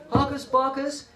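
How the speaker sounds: high, chanted call; attention-getter call. Shown as a demonstration. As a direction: call the cue out to the class. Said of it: "When I say".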